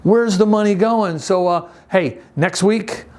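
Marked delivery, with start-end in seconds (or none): 0.0-1.2 imitating the kids asking. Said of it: "you're probably wondering".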